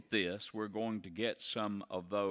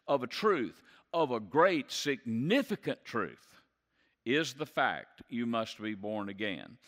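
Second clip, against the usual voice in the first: preacher stressing "of a great significant truth"; stressed "of a truth". Shown as a demonstration. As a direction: press each "truth" home. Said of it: "you're saying it like this".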